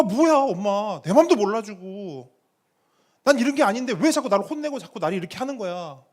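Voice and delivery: high-pitched, aggrieved child's complaint, acted out; angry outburst. Upset child griping to a friend about mom, angry outburst. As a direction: mimic a kid venting loudly about mom. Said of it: "막 성질을 내고 화를 내면서".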